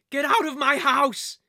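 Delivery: high, loud shout of outrage; angry shout. Acted. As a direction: shout it to drive out intruders. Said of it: "she shouted".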